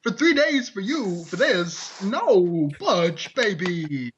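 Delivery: lightly done Walken, slow drawn-out start; a hint of Walken pleading; Christopher Walken impression. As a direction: loose Walken cadence. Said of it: "I'm Christopher Walken".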